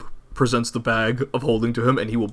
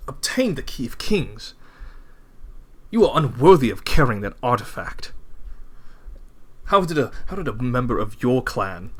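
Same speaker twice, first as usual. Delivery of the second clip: Edward. Acted. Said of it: "and he goes".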